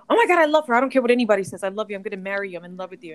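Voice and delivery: imitated drunk lover, bursting out loud then fading; drunk declaration. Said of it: "he got really drunk".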